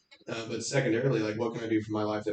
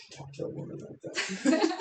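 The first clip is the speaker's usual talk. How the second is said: much higher, slow laughing mock scold; offended scold; 3 dB quieter, slower than usual. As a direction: squeal it like an outraged prude. Imitating offended liberal audience.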